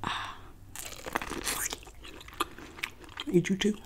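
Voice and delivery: speaking while biting corn; biting corn on cob. Real, not acted. Seen 0: Corn cob held in teeth, biting throughout the labelled words.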